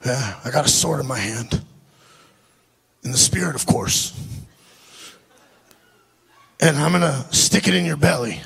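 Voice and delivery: low imitated accent of an eccentric man; Billy's accent. Crazy Billy announcing his spiritual sword, low imitated accent. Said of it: "I've done an accent the whole time".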